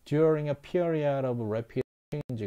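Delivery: very slow, careful read of the English line; slow demo reading. Shown as a demonstration. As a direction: spell out each word slowly for students. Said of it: "이렇게 읽어야 되는 거예요".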